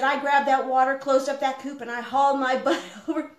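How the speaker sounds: retold scared rush. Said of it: "He said".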